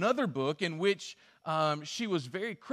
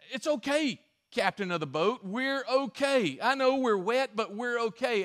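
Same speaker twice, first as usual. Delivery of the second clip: reassuring pastor; 5 semitones higher, 3 dB louder than usual. Retold or imitated. Pastor reassuring boat captain.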